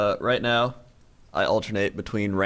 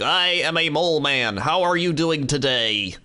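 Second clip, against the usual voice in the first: higher, stilted Russian mole man; bad-acting mole man; 4 semitones higher than usual. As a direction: recite it like an amateur voice actor. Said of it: "people that don't know how to voice act".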